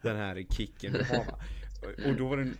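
normal talking voice

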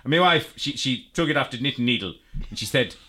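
put-on a light Irish farmer's accent, quoting him; lightly voiced old Irish farmer; mock Irish accent. Podcast host imitates an old Irish farmer in a light Irish accent. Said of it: "racist accent".

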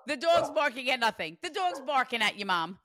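loud, high, excited pointing out. Real, not acted. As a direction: announce the sign with delight. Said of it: "Those are the signs".

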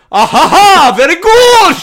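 very high, loud affected laugh; snooty mock laugh. Stuffy theatre crowd at a serious line, braying mock laugh. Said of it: "they'll go".

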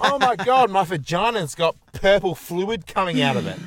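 high, loud panicky letter writer; panicked teen girl voice. Pretend. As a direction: read it like a frantic teen reader.

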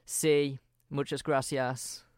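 put-on mundane Spanish in a Brummy accent; Spanish words with no attempt to drop the Brummy accent; slow, unchanged Brummy vowels on Spanish. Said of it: "it would just be a Brummy guy talking".

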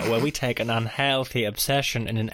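put-on old-time radio host voice; big hammy radio welcome; 1950s announcer. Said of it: "a fucking nineteen fifties announcer there".

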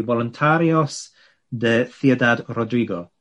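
plain voice, slight Spanish accent. Shown as a demonstration. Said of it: "That was an attempt at a Spanish accent".

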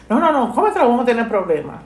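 the mother won't take no for an answer; insistent mother. Retold or imitated.

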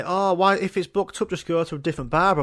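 high, mildly mocking voice of a know-it-all; a hint of a nagging friend; mocking other people. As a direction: lightly parody the advice-givers. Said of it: "some people say to me".

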